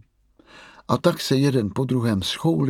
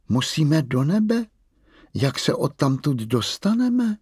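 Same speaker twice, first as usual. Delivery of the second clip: dětská otázka; 5 semitones higher than usual. Acted. Malá Mia se vyděšeně ptá.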